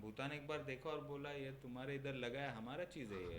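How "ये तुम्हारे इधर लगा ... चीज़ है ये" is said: fast, hushed scolding in a put-on voice; Bhutan character voice. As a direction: play a grumbling small neighbour.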